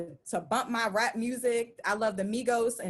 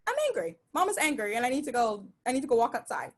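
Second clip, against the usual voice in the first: announcing her anger; faster than usual. Retold or imitated. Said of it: "because I say".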